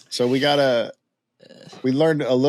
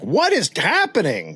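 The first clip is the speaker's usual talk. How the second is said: drawn-out, incredulous question with swooping pitch; baffled outcry; 6 semitones higher, slower than usual. Retold or imitated. Townspeople reacting to the newcomer's paper, baffled. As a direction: act out a town's bewilderment.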